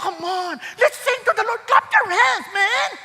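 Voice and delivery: a hint of a pushy song leader urging claps; pushy worship leader. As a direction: lightly imitate a leader forcing the crowd to clap. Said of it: "Pipilitin pa".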